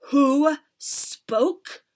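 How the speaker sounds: high, loud furious shriek. Acted. Witch leader demanding the culprit, loud shriek. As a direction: shriek with rage. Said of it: "she shrieked".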